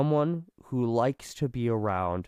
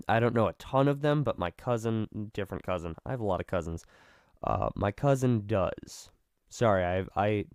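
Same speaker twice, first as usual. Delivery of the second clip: vocal fry. Real, not acted. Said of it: "sorry for the vocal fry".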